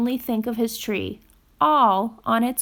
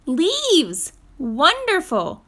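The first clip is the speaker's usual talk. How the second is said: delighted to find nest stuff; squirrel. Acted. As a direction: squirrel greets the falling leaves gladly. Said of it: "said a squirrel".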